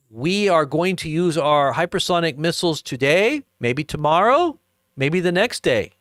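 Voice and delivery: a hint of a smug Putin; imitating Putin. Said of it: "that's the way he said it".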